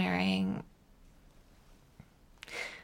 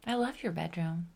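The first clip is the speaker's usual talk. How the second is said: hushed intimate voice; 7 dB quieter than usual. Acted. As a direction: breathe it to your lover on the phone. Intimate phone call, hushed.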